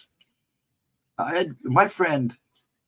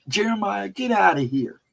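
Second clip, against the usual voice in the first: high, mock hillbilly shout of a name; hillbilly lady; 7 semitones higher than usual. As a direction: yell at him like a backwoods shopkeeper, higher. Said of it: "sounded like something from a Hillbilly movie".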